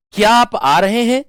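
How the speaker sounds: "क्या आप आ रहे हैं" high, loud, rising at the end; questioning intonation. Shown as a demonstration. Teacher demonstrating a question for students, questioning intonation. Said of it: "आपसे प्रश्न पूछा".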